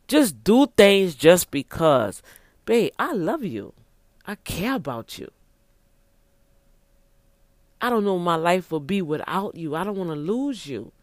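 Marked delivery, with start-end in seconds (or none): 2.7-10.9 mean every word to her; tender plea. Acted. Husband telling his wife he loves her, soft and sincere.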